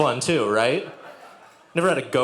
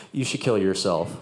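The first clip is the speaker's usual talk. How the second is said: imitating dad; 7 semitones lower than usual. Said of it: "And he says".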